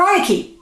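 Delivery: Reineke said with an English REYE-nek ending; mock the wrong Reineke; wrong pronunciation. Shown as a demonstration. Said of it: "You will hear people say Reineke".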